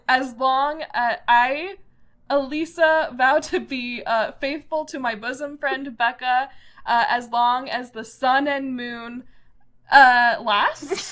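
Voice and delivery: mock solemn oath. Reciting mock oath, crying laugh.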